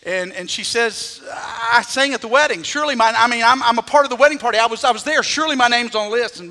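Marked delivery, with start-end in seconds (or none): 1.3-6.4 indignant protest. Retold or imitated. Singer protesting to maitre d'.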